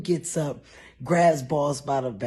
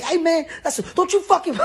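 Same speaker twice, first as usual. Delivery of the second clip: much higher and louder, cracking into laughter; furious shout; 7 dB louder, faster than usual. Retold or imitated. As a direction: shout at a friend to back off. Defending camera lady.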